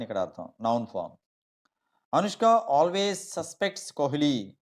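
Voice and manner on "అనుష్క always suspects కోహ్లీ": slow example with "suspects" stressed just before the p; verb stress in "suspects". Shown as a demonstration. Teacher showing students the verb form, stress on second syllable of "suspects". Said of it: "P ముందు పెట్టాలి".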